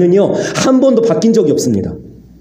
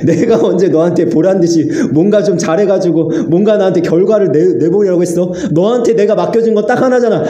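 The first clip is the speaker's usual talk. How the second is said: a gentle, higher voice of God, pleading then firm; voicing God; 3 semitones higher than usual. God reassuring the weary pastor, raised and tender. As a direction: speak as God gently rebuking his servant. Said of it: "하나님이 저에게 말씀하시더라고".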